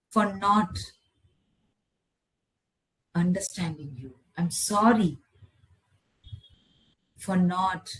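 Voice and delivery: measured meditation voice with long pauses; guided meditation. Acted. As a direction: lead them through it phrase by phrase. Leads a forgiveness meditation.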